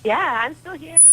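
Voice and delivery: faint, distant phone line; barely audible through the call; over a landline phone. Real, not acted. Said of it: "trying to turn it up so we can hear you".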